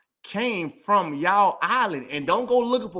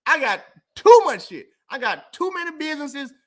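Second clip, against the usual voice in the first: ranting; 4 semitones higher, 4 dB louder than usual. Real, not acted. Rant about busy life.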